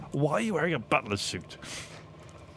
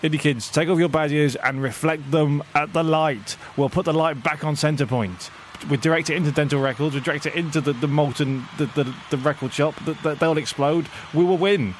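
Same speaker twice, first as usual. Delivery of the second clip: rallying speech; 3 semitones higher than usual. Acted. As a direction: rouse the crowd to battle. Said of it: "on the microphone at the main stage".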